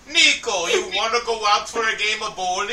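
American doing a mock Russian accent. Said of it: "For my Russian accent".

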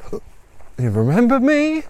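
high, slow challenging question; confrontational challenge. Acted. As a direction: draw out the challenge. Mary confronts her lost father.

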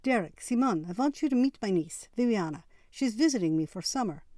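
high, loud gushing introduction; excited introduction. A narrator's reading. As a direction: proudly show off your niece. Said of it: "practically squealed".

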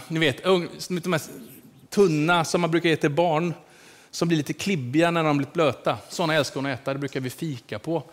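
ordinary talk

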